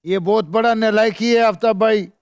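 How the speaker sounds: lightly done politician impression; put-on voice. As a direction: keep up the fake politician voice. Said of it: "तुम अपनी असली आवाज में बोलो ना".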